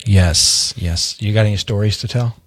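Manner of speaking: a hint of low late-night radio host; midnight radio storyteller. Host playing along with co-host's radio stories remark, lightly put-on midnight voice. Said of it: "like, midnight stories on the radio".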